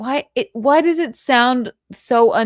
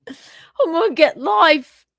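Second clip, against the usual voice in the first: laughing mock suspect; 8 semitones higher, 5 dB louder than usual. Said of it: "suspect's line repeated".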